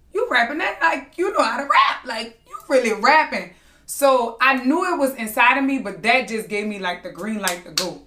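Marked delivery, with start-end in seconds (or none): 0.1-3.5 higher, impressed disbelief with a laugh in it; mock amazement. Daughter retelling uncle hearing her rap, lightly acted amazement. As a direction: play an uncle caught by surprise.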